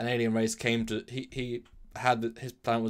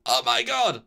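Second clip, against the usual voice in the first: louder but steady, matter-of-fact cry; quoted exclamation; 3 semitones higher, 7 dB louder, slower than usual. Retold or imitated. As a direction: say it the way Data actually did. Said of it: "Like that".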